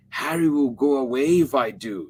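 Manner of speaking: put-on high, pouting child; sulky little girl refusing. A narrator's reading. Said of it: "she answered".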